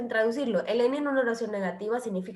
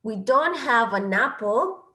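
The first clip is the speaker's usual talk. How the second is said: slow model sentence; 4 dB louder, slower than usual. Shown as a demonstration. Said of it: "en negatives".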